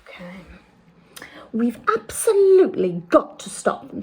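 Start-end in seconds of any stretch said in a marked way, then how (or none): 1.5-4.0 louder, higher, urgent plea; urgent cry. Acted. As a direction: press it out urgently. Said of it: "Sophie cried".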